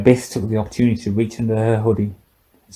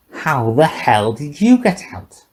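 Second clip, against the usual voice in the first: slow, slurred and higher, words smeared by drink; drunken slur; 5 semitones higher, slower than usual. A narrator's reading. Old drunk scientist to the intruder, slurring. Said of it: "he slurred".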